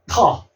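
터 with a clear t sound; British-style 터, t kept; British pronunciation. Shown as a demonstration. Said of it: "영국 발음은 터라고 하고".

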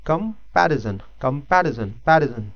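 कंपैरिजन with the second syllable PA stressed; teacher drilling stress on the second syllable. Shown as a demonstration. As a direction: repeat कंपैरिजन, leaning on PA. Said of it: "कंपैरिजन में जो stress".

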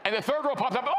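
loud, laughing, high shout; excited retelling. Retold or imitated. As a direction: shout it out like the crowd did. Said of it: "and they went".

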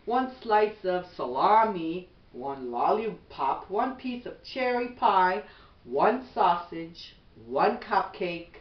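gentle, even bedtime storybook read; reading to children. Acted. Mother reading a bedtime book to her son, gentle storybook voice.

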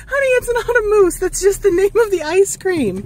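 laughing. Real, not acted. Mom reassuring through laughter.

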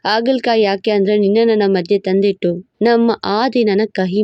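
husband voice, teasing. Acted. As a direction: tease her like a cocky husband.

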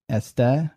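este stressed on its last syllable, TE; final-syllable stress. Shown as a demonstration. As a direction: put the accent on the end of este. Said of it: "I am accenting them on their final syllable".

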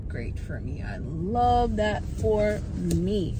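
dry, drawn-out sarcasm; slow, sarcastic love that for me. Real, not acted. Sarcastic reaction to bad news.

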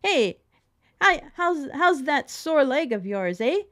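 loud, high, blunt hey to a patient; brash loud greeting. Retold or imitated. Visitor greeting elderly relative loudly and carelessly. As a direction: barge in with a careless loud hello. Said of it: "you wouldn't go in and say".

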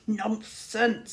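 cheerful scolding dismissal; good-natured scolding. Acted. Tsar cheerfully scolding his worried companion. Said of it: "scolded Tsar good-naturedly".

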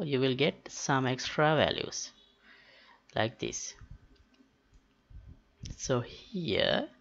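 ordinary delivery

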